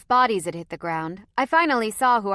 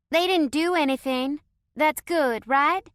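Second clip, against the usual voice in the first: higher, louder anxious asking; anxious question; 8 semitones higher, 5 dB louder than usual. A narrator's reading. Chloe nervously asks the narrator for reassurance. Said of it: "Chloe asked".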